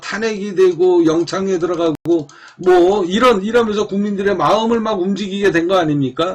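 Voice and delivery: ordinary talk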